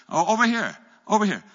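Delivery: high, loud hail across the valley; calling out. Retold or imitated. Jonathan keeps calling the Philistines over, loud. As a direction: keep waving them over with your voice. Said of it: "he yells out to the garrison".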